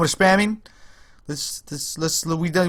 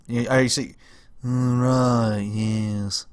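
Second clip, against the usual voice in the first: lightly voiced cartoon character, drawn out and lower; Stewie; 4 semitones lower, 4 dB quieter, much slower than usual. Streamer asked for funny accents, light Stewie impression. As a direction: slip into a bit of the accent, trailing lower. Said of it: "The, the Stewie one".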